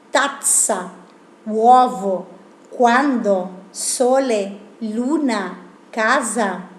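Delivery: Italian pronunciation, crisp double consonants; Italian words. Shown as a demonstration. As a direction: say each Italian word clearly. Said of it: "palabras como uguale". (pronunciación italiana clara)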